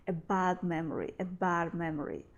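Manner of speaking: "bad" said with its D swallowed before "memory"; D disappears. Shown as a demonstration. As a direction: let the D of "bad" vanish. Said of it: "So here also D disappears".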